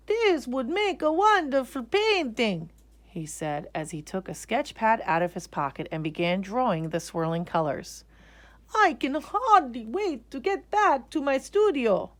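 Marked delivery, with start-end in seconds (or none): 0.1-2.7 higher, eager painter; a painter struck by an idea; inspired artist. Acted. Artist inspired by the spinning clothes. 8.7-12.1 higher, eager painter; a painter struck by an idea; inspired artist. Acted. Artist inspired by the spinning clothes.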